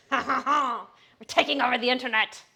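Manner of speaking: laughing boast through giggles. Real, not acted. Streamer joking to chat about the podcast, laughing. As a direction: crow it while laughing.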